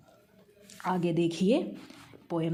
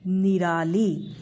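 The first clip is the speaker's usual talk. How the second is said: slow dictation; much slower than usual. Shown as a demonstration. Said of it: "कौन सा है?".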